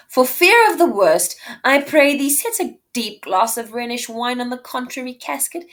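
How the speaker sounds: loud reading. Acted. Reading Portia loudly.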